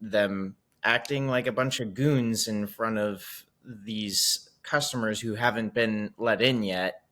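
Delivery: slow, pointed tattletale voice; lightly voiced snitching to mom; tattling. Player tattling to Kylie's mom, slow and pointed. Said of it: "tell Kylie's mom, like".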